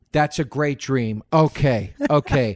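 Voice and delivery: high mock-therapist voice building to an insult; a fake therapist insulting the dreamer; worst therapist. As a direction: start sweet, then blast the insult. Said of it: "Eddie would go".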